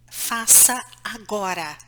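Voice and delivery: a low, firm command. Shown as a demonstration. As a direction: say it like a parent who means it. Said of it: "Eu presto muita atenção no tom de voz". (tom firme de comando)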